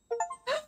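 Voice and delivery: sudden high shriek of surprise; a sharp startled gasp shooting way up; real fright squeal into the mic. Real, not acted. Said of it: "I'm so sorry for screaming".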